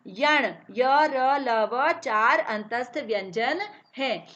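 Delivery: each letter said very slowly and separately; slow recitation of letters; slow letter drill. Shown as a demonstration. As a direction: spell out य र ल व slowly. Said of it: "अल्प शक्ति से".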